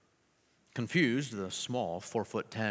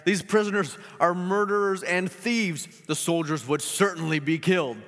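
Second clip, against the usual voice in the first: higher, louder alarmed warning; fearful governor; 6 semitones higher, 6 dB louder than usual. Acted. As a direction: warn of certain death. Governor explains the danger.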